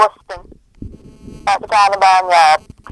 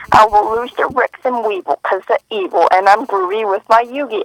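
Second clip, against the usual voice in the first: light Southern country twang in a sung rap; a hint of a country accent on the lyrics. Friend rapping a favorite part in a country accent. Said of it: "That was a country accent".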